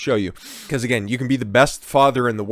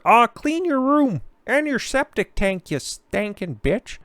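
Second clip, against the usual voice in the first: Jordan Peterson; 12 semitones higher, slower than usual. Retold or imitated. Scolding her the way Jordan Peterson would, high and slow in a put-on lecturer voice. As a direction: ham up a scolding professor talking down to her. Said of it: "Jordan Peterson should be telling her".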